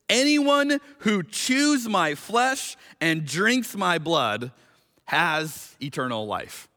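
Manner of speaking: slow reading with chews weighted; leaning on chews. Shown as a demonstration. Preacher showing the church the literal wording, chews stressed. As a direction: draw out chews to make it sound strange. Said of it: "Let me show you how you can, you can read this".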